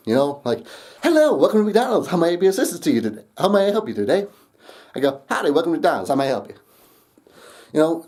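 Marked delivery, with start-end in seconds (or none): 1.0-4.3 higher, scripted fast-food greeting; mock chirpy customer-service welcome; standard McDonald's greeting. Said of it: "I didn't give them the McDonald's experience". 5.3-6.6 put-on country accent. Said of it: "straight up country accent".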